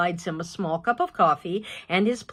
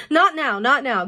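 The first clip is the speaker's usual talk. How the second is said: fending off dog; 6 semitones higher, 6 dB louder than usual. Acted. Pushing the jumping dog away.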